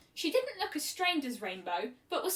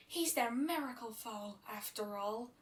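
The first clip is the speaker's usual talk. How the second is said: scornful; 6 dB quieter than usual. A narrator's reading. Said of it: "Fluttershy said scornfully".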